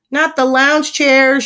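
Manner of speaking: loud, high, drawn-out plea; anguished shout. A narrator's reading. Neighbor sees pig heading for furniture, anguished shout. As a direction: wail it at full voice. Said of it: "shouts the next door neighbor".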